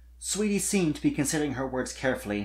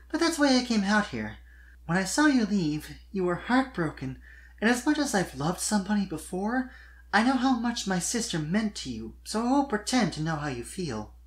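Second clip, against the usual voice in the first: much higher giggly filly voice; Sweetie Belle voiced; 7 semitones higher than usual. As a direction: play a bright young unicorn filly, teasing kindly.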